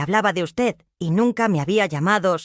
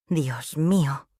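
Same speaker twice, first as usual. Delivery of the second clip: sobbing prayer; 3 semitones lower, much slower than usual. Acted. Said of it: "oré entre sollozos".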